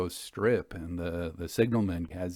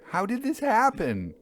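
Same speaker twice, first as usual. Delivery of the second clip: rising distress; 12 semitones higher than usual. Acted. Narrator demands of railwaymen, nearly crying out. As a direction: push the question up in horror. Repeated, more urgent.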